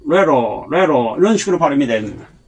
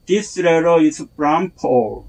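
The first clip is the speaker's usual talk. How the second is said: letter and Paul punched; stress on letter and Paul; much slower than usual. Shown as a demonstration. Teacher showing English sentence stress. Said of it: "D와 Paul이 액센트예요".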